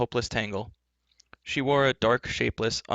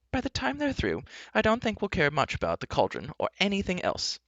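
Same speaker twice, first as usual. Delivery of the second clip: high-pitched, fretful bard; alarmed bard; 9 semitones higher than usual. Acted. Bard doubting they will survive, alarmed. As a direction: fret in a very high voice. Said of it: "filled with alarm".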